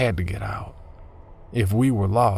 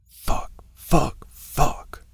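frustrated shouting; 6 semitones higher, much slower than usual. Acted. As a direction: swear hard at the dead end. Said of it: "I shouted".

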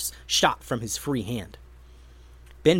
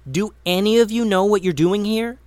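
incredulous question; 7 semitones higher, 6 dB louder than usual. A narrator's reading. Tatiana questions the trolls.

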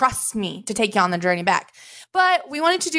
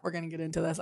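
podcast catchphrase; 4 semitones lower, 13 dB quieter, faster than usual. Shown as a demonstration. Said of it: "I have always dreamed of saying that".

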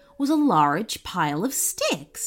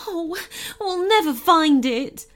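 high, despairing storybook moan; moaning goblin; 8 semitones higher than usual. A narrator's reading. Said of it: "she moaned".

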